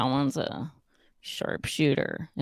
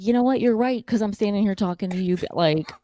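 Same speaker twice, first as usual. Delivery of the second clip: sassy mock agreement; 5 semitones higher, 7 dB louder than usual. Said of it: "And then I'll be like".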